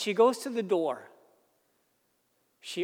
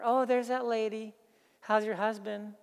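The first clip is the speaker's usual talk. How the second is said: mocking kids; 3 semitones higher, 3 dB quieter than usual. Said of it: "they start making fun of her".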